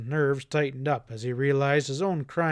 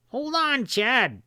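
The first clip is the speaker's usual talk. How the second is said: much higher, pleading whine; whining; 10 semitones higher, much slower than usual. A narrator's reading. Stack begging Hanlon to stop, in a high whine. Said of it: "he was whining".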